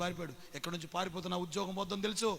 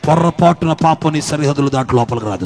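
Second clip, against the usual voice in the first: louder repeat; 20 dB louder than usual. Shown as a demonstration. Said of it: "repeated louder right after".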